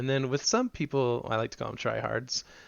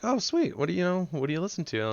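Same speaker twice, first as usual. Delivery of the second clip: mock eager fan; 7 semitones higher than usual. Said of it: "It's like".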